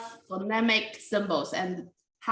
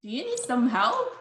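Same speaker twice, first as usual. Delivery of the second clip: sarcastic; 3 semitones higher than usual. Shown as a demonstration. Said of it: "it can be sarcastic".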